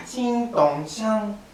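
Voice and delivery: slow sung-out chin tong shan; shamisen sounds. Shown as a demonstration. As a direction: pluck the syllables slowly. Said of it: "The first step was so easy".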